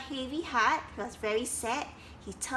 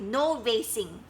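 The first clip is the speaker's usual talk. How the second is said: bossy order; 4 dB louder than usual. Acted. Duck banning racing.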